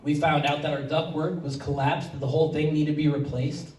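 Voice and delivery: soft, halting, holding back emotion; real emotion catching in the throat, hushed, with long pauses; choked up. Real, not acted. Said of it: "I'm getting all choked up".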